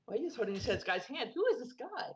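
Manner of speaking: gasp, then mock-scandalized questioning; eager, nosy reaction with a jump in pitch; excited gossip. Duke thrilled at the hand-holding, excited gossip.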